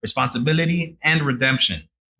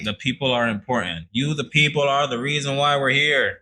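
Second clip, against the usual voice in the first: politician voice. Pretend. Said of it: "my politician voice".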